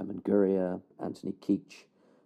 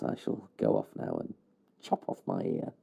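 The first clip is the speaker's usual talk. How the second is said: very low, grave and theatrical; deep mock-solemn voice; 13 semitones lower, 3 dB quieter than usual. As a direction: drop the voice deep like a doom-laden vow. Mock penance, chopping off ear.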